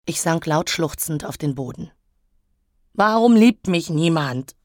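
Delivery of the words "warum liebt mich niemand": louder, plaintive lament; wailing. Acted. Elektra sunk sobbing on the floor, wailing. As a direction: wail it in self-pity. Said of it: "jammerte ich".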